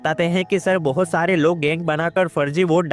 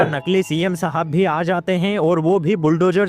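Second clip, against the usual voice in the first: steady, evenly pitched plot narration; movie explainer voiceover; story recap narration. A narrator's reading. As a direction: narrate the plot in a continuous, regular rhythm.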